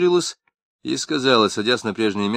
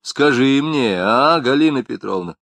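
ordinary delivery

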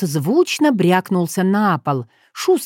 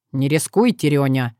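tender; 4 semitones lower than usual. Acted. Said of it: "нежно пропел Уртян".

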